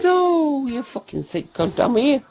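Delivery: loud, high insult called back; mock-indignant yell; retold shout.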